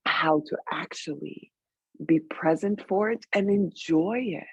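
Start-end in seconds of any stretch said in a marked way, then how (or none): 0.1-1.5 hushed. Real, not acted. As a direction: drop to a breathy hush. Leaning in, hushed aside.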